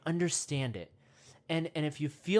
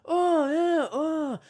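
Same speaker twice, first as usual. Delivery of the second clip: high, loud ape hoots; dirty monkey; 11 semitones higher, 7 dB louder, much slower than usual. Pretend. Host pretending to be a mud monkey, hooting. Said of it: "talking to the other monkeys and going".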